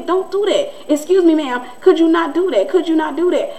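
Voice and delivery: pointed, put-on courtesy; mock polite confrontation. Voices confronting a neighbor.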